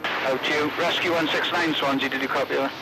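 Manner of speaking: marine radio. Real, not acted. Coastguard radio call.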